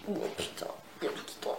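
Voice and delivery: low-voiced, whispery curse to yourself; muttered aside. Real, not acted. Vlogger cursing as everything falls over, muttered aside. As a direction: swear under your breath, barely voiced.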